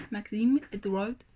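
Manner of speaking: slow French-accented full name; attempted French accent. Shown as a demonstration. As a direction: carefully try the name in French. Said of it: "I'm trying to do the accent".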